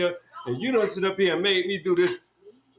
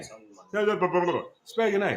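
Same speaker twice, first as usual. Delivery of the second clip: slow drawn-out taunt; 3 semitones lower, much slower than usual. Real, not acted. Man taunting friend who can't read, very slow and drawn out. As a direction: stretch each word out very slowly.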